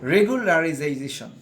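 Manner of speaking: রেগুলারাইজেশন said slowly, syllable by syllable; careful teacher model of রেগুলারাইজেশন; slow demo pronunciation. Shown as a demonstration. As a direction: spell out রেগুলারাইজেশন slowly for learners. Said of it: "এখানে আমরা আরেকবার উচ্চারণ করে নিই".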